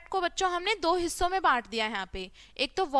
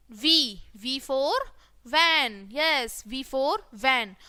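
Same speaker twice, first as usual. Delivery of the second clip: slow teaching drill; much slower than usual. Shown as a demonstration.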